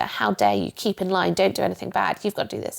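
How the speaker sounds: lightly voiced sergeant major, mild mock sternness; a hint of barking orders at a recruit; understated strict inner drill sergeant; drill master voice. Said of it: "the drill master, sergeant major".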